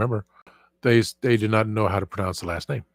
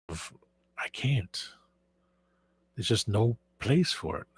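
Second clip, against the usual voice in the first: whisper; 7 dB quieter, much slower than usual. Real, not acted. Overwhelmed by toy collection.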